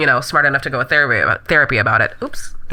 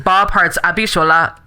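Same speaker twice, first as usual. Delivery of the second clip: Nigerian accent. Shown as a demonstration. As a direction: show title in a Nigerian accent. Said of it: "if you were saying it".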